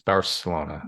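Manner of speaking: "Barcelona" with a clear s, Bar-se-LO-na; "Barcelona" with a plain English s sound. Shown as a demonstration. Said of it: "you say Barcelona with s".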